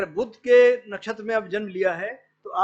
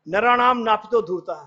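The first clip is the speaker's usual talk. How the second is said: a bit louder, chanting Chanakya's sutra; Sanskrit sutra recitation; 5 dB louder than usual. Retold or imitated. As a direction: declaim the verse to the class. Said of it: "Chanakya एक बड़ा अच्छा सूत्र है". (चाणक्य सूत्र का पाठ)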